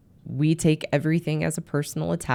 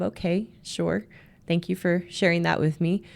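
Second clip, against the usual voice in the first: feigned perfect calm; 3 semitones higher, 3 dB quieter than usual. Retold or imitated. Wife acting fine to her husband, mock calm. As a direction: imitate outward composure, slightly raised pitch. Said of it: "being just perfectly calm".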